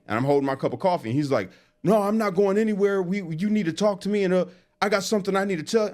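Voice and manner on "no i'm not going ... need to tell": high, pushy imitation, faster at the end; mock insistent Jake. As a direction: parody a clingy guy who won't leave. Jake refuses to leave, retold.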